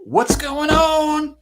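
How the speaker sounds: high, slow shouted hello; a loud drawn-out hey there; called-out greeting. Real, not acted. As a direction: call out across the room. Husband calls out greeting on arrival.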